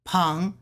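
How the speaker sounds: "Peng" with a rising Mandarin tone; second tone. Shown as a demonstration. Demonstrating for learners, "Peng" in rising second tone. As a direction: let "Peng" climb at the end. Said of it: "Second tone".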